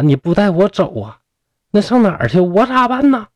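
high, climbing distressed questions; pleading. A narrator's reading. Sister clings to her departing brother, anxious pleading. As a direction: plead with rising urgency.

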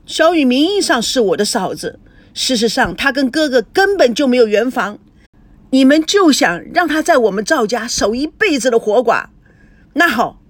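forceful, aggrieved retort; indignant rebuttal. Acted. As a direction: argue back bitterly without letting up. Son argues back at parents.

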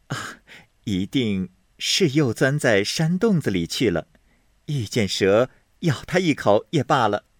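offhand, playing innocent; Baochai's voice. Baochai fakes a search aloud, lightly voiced.

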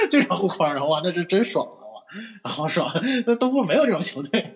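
loud, high and thrilled; excited. Real, not acted. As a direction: rave about it with delight. Raving about Kanter's rim protection. (兴奋地赞叹)

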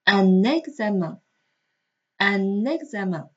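UN EXAMEN linked by a sounded N; liaison with N. Shown as a demonstration. Teacher shows learners the link, N sounded in UN EXAMEN. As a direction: run UN into EXAMEN as "un-nexamen". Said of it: "第一个单词不发音的尾字母要和后面的单词首个元音连在一起读".

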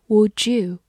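"would you" joined as "would-ju"; linked sounds. Shown as a demonstration. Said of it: "会有个连读". (would you 连读成 would-ju)

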